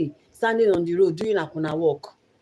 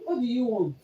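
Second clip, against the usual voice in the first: quiet coaxing; 5 semitones higher, 6 dB quieter than usual. Real, not acted. Asking crying child what's wrong.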